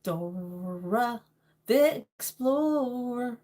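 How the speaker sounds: very slow, drawn-out cartoon accent; Dora the Explorer accent. Streamer practicing the cartoon explorer's accent, slow and exaggerated. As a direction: stretch each word in a put-on accent.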